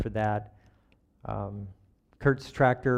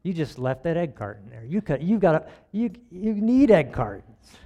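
nagging false-self voice; 3 semitones higher than usual. Acted. Preacher voicing his false self over egg cartons, mildly nagging. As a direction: lightly play a nagging inner critic, stretching the end. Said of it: "other false self voice comes back".

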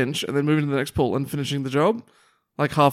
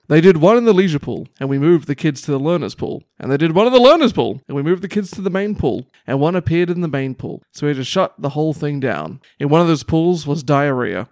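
quoting the manager; 6 dB louder than usual. Retold or imitated. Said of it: "Pete Thompson had this to say".

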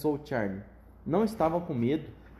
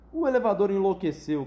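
higher, louder cry; alarmed shout; 5 semitones higher, 4 dB louder than usual. Acted. Grandpa Joe watching the lift soar, shouting. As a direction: blurt it out in alarm. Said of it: "gritou o vovô José".

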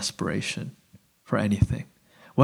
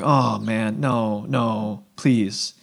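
softer mock plea from nervous disciples; hushed pleading; 4 semitones lower, 6 dB quieter, much slower than usual. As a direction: beg them quietly not to let it happen. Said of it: "They're like".

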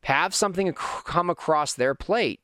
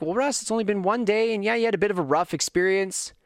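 voicing dad; 6 semitones higher than usual.

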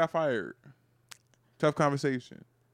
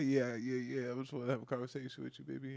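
low, hushed mock sweet-talk; softly butter her up in a low voice; coaxing boyfriend; 5 semitones lower, 15 dB quieter than usual. Boyfriend pampering her before bad news, mock tender.

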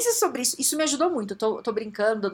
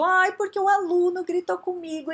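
high, put-on whiny voice; hammed-up wounded complaint; mock complaint; 8 semitones higher, 3 dB louder than usual. Shown as a demonstration. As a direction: whine it as an aggrieved victim. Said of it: "Tudo é interpretação minha".

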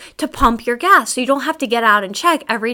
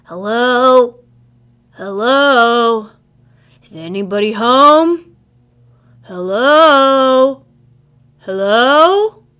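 stranger calling out; 7 dB louder, much slower than usual. Retold or imitated. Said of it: "It's this deep voice".

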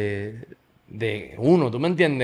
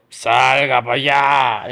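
slow, loud drawn-out command; shouted order; 5 dB louder, much slower than usual. Retold or imitated. Julio pushing his teammate out to the crowd, shouted order. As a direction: stretch it out as a booming order. Julio shoving him out, acted.

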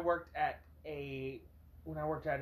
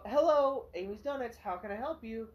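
customer service voice; 5 semitones higher, 3 dB louder than usual. Retold or imitated. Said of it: "In your best customer service voice you can".

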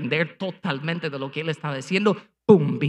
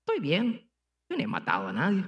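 imitating a smug believer excusing himself; smug self-justifier; 5 dB quieter than usual. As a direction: sound self-satisfied and careless. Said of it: "algo en ti que te hace pensar".

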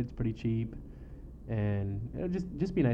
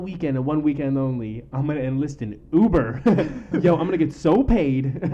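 excited; 3 semitones higher, 6 dB louder than usual. Real, not acted. Excited Uber money plan.

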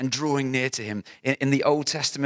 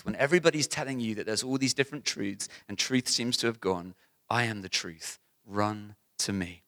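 softer tender invitation; 2 semitones lower, 5 dB quieter than usual. Acted. Quiet voicing of Jesus.

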